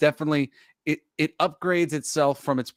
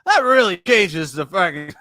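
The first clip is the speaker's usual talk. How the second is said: mock shock; 4 semitones higher, 6 dB louder, slower than usual. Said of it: "and I was like".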